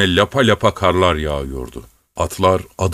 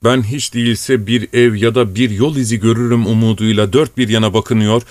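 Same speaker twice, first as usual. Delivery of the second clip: ordinary delivery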